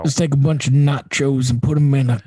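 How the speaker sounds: playful Texas twang; Texas accent. Pretend. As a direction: give a mock recipe in Texan. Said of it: "Let me hear your Texas accent".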